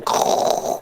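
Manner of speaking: rough unvoiced grinding noise; stones grinding. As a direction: imitate stone scraping on stone. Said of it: "like it's the sound of stones, grinding against one another".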